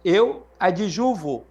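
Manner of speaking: slow, spelled-out conjugation; slow, deliberate model for students; slow teaching demo. Shown as a demonstration. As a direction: lay out each syllable for the class. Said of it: "Qual é a desinência aqui?".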